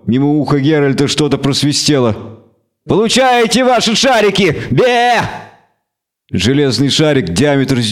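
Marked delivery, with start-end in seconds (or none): 2.9-5.2 angry goat creature. Acted. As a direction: rant and bleat like a furious goat. Creature keeps throwing balls.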